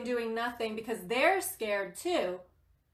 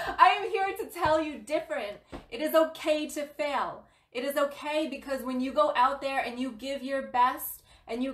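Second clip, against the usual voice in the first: passionate pep talk; 2 semitones higher than usual. Real, not acted. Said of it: "Sorry if I'm getting aggressive or hard love here".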